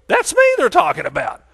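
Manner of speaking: high, loud acted exclamation; excited recognition. Award guest hears his details named, acted excitement. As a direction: burst out as if you just won. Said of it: "and you go".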